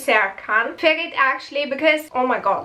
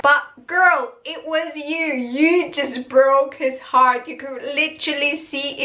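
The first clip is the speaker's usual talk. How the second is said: exasperated scolding; 2 semitones higher than usual. Real, not acted. Scolding the character on screen.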